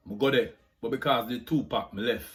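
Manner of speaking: Jamaican patois accent. Shown as a demonstration. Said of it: "Jamaican accent tag".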